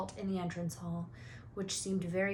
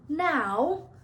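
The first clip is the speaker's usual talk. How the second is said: frantic; 8 semitones higher, 8 dB louder than usual. Acted. Harry desperate at news.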